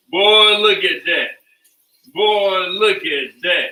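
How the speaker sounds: slow, stretched-out marvelling at food; drawn-out admiration. Real, not acted. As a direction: draw each word out, admiring the chicken. Admiring the chicken on camera.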